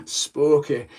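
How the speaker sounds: amused mock-Scottish accent; a Scottish catchphrase through a laugh; Scottish conspiracy theorist. Vlogger repeating the Scotsman's catchphrase, laughing mock accent. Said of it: "the Scotsman who's a bit of a conspiracy theorist".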